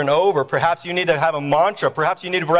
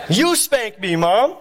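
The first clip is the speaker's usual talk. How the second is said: put-on raised, pleading boy voice; put-on whine of a kid pleading; fake-crying kid; 6 semitones higher, slower than usual. Boy asking mom for the spanking, fake-crying. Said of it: "I would fake cry when my mom".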